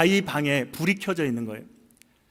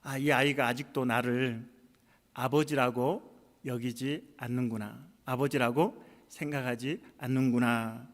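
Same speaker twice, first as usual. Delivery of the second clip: saddened realisation; 2 semitones lower, 4 dB quieter than usual. Retold or imitated. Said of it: "목사님이 들었던 생각은".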